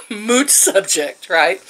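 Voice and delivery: slow, drawn-out mocking echo with a laugh. Mocking the coworker's fancy word, slow and scornful. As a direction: savour the fancy word to mock it. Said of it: "Ooh, Connie, big word".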